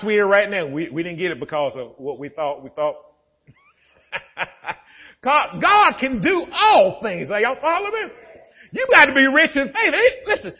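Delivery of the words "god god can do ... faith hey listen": raised, building sermon cadence; high, pressing preacher voice; preaching. Acted. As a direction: preach it out to the church. Preaching at full force.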